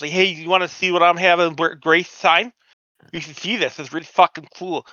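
a fan cornering a fellow fan with his photo, creepy and eager. Retold or imitated. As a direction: play the pushy creep showing off his prize.

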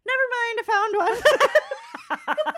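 loud and high, breaking into laughter; breezy punchline outburst. Acted. Irishman finds a parking spot, mock excited. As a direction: call it out, laughing at the joke. Joke punchline, prayer abruptly withdrawn.

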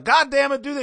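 high, loud mock fatherly tirade; hammed-up angry dad shout; yelling dad. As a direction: holler orders like an exasperated dad. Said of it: "he gets yelled at".

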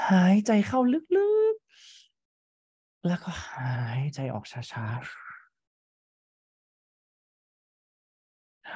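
drawn out breath cue; slow breathing guide. Shown as a demonstration. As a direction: stretch every word like a slow breath.

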